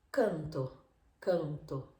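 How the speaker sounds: canto said through the mouth, no nasal; Spanish oral canto. Shown as a demonstration. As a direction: canto with an open oral vowel. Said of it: "Sale por la boca".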